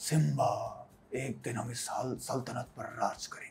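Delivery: whispered, breathy, quiet, menacing villain voice. Retelling how someone first said a line when told how to say it, with a Scar-like attitude. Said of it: "उसका थोड़ा सा scar वाला attitude आ रहा था".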